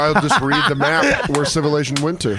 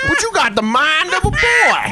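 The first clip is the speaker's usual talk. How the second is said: pitched-up recruiter shout; a mock-earnest scout, raised high; football recruiter voice; 12 semitones higher than usual. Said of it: "sound like a football recruit".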